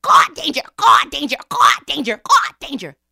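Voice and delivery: loud, urgent crow cries; crow sounding alarm. A narrator's reading. Crow warns the forest of danger, cawing alarm. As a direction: caw out a repeated warning. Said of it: "when he heard Crow say".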